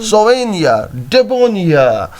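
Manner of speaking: "souvenir" and "debonair" weighted on the last syllable; two light syllables, then stress NIR in "souvenir" and NAIR in "debonair"; anapest stress. Shown as a demonstration. Teacher giving anapest examples, "souvenir" and "debonair" stressed at the end. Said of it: "it has two unstressed syllables, as a souvenir".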